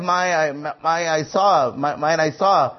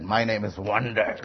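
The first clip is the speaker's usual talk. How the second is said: low quiet answer; 7 semitones lower, 5 dB quieter than usual. Acted. God first answering Manoah, low and soft. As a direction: lower and softer, said almost aside.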